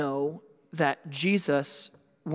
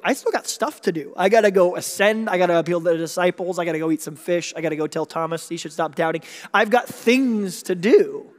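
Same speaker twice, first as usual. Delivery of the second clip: joking Jesus; 5 dB louder than usual. Retold or imitated. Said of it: "and almost like a joke, he's like".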